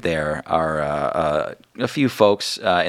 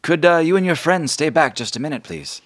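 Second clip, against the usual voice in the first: higher, louder polite ask; Margot's request; 10 semitones higher, 6 dB louder than usual. Acted. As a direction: hold them back a moment. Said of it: "she says".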